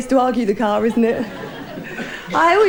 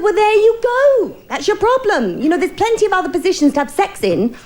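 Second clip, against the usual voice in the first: doctor voice; 7 semitones higher than usual. Retold or imitated. Doctor giving his diagnosis.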